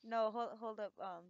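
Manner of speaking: breathless after laughing; out of breath. Real, not acted. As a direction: still catching breath. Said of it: "trying to catch my breath".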